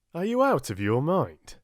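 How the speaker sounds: security officer yelling at the prince; yelled. Acted. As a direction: bawl him out. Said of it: "he yelled at Richard".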